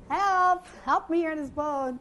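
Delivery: high, loud cry of help. Retold or imitated. Sinking fisher calls to people on shore, loud desperate cry. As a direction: shout for help like you're sinking. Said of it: "And I'm crying".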